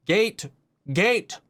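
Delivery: mock urgent command, each "gate" high with a rising end; calling the droid. Viewer imitates Mando calling to distracted R five, mock insistent call. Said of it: "R five is distracted and he's like".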